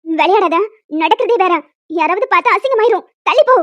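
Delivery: angry warning. Acted. Cornered woman tells Sathya to move away, loud and rising. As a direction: order him off, rising to a near shout. Woman fends off pushy fiancé.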